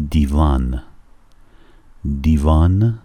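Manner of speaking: 'دیوان' said slowly as di-van; Russian word. Shown as a demonstration. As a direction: spell out 'دیوان' clearly. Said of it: "teaching the word divan".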